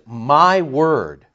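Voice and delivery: MY lengthened and lifted; emphatic "my", falling on "word"; stress on MY. Shown as a demonstration. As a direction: lean on "my" before "word". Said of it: "let's put the emphasis on the my".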